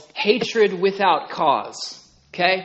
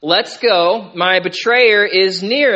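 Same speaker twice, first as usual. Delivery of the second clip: urgent call; 4 semitones higher, 9 dB louder, slower than usual. Acted. Jesus rousing sleeping disciples.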